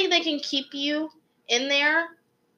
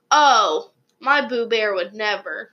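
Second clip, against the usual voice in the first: mom impression; 3 dB louder, slower than usual. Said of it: "that's a mom impression".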